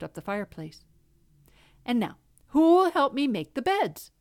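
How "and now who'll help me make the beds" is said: bright hen voice. Acted. Hen asks for help.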